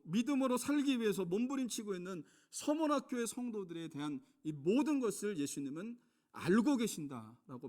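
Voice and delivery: high, loud impassioned sermon delivery; fervent preaching. Acted. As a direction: preach it out to the congregation. Preacher at full force. (열정적인 설교)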